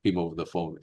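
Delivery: imitating her sarcastic tone. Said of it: "she spoke very sarcastically".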